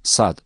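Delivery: Sad said thick and heavy; Arabic sad demo; thick emphatic S. Shown as a demonstration. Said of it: "daima kalın okunur".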